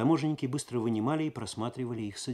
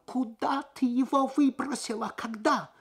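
much higher, louder frantic yell; shouting; 14 semitones higher, 5 dB louder than usual. A narrator's reading. Losar shouting at his wife about the thrown-out wallet, frantic. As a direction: demand it in a panic. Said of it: "и вдруг снова закричал".

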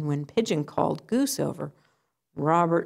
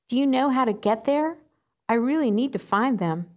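higher little duck voice, eager; pleading duckling; 7 semitones higher than usual. Acted. Duckling asks pigeon for help, higher and eager. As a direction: beg for directions as the duckling.

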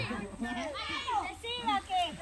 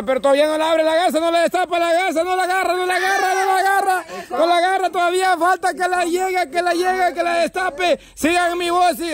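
live play-by-play; 6 semitones higher, faster than usual. Acted. Host narrates the search live.

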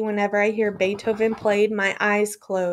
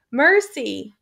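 faint plea; 4 semitones higher, 4 dB louder than usual. Acted. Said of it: "The same faint voice".

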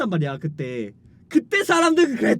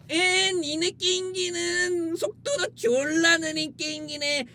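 slow mocking playground taunt; taunting fanboy; 3 semitones higher than usual. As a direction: jeer at the rival console. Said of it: "하면서 이제 서로 치고받고 싸웠던".

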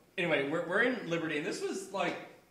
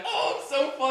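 imitated laughing friend; 8 semitones higher than usual. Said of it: "Andrew's laughing his ass off".

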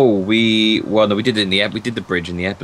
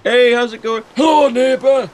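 much higher, louder chirpy greeting; a hammed-up sing-song hello; cheery neighbour; 13 semitones higher, 5 dB louder than usual. Neighbour greeting you through the missing wall, high and chirpy. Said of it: "you'll be like".

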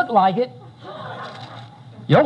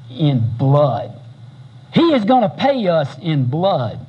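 dropped low, grim and deliberate; menacing threat; 5 semitones lower than usual. Retold or imitated. David promises his men bloody revenge, low menacing threat. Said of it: "And he shouts to all his guys".

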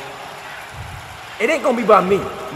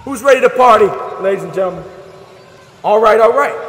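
rowdy party animal. Acted. GM hypes the crowd.

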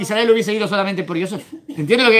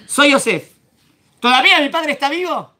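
Yosef pleading; 7 semitones higher, 4 dB louder than usual. Acted. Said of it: "miren cómo se quedan".

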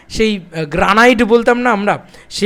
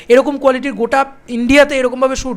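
usual speaking voice

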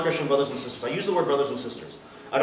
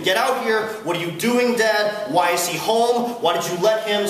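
mock tantrum, slightly raised pitch; retold angry screaming; 3 semitones higher, slower than usual. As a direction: act out the older son's outburst without really shouting. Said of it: "He starts screaming".

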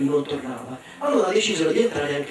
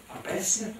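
dismayed; 4 semitones higher, 8 dB quieter than usual. Acted. Ogre dismayed question.

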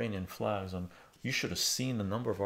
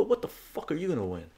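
retold angry challenge; 6 semitones higher, 4 dB louder than usual. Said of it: "I go".

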